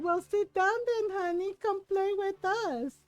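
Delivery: mock-sweet invitation. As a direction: lure him in sweetly. Aunts luring cousin into the game.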